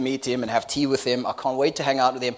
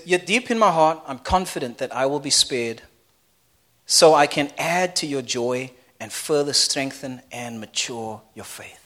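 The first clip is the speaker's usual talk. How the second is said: scripture reading; 3 semitones lower than usual. Acted. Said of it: "He says".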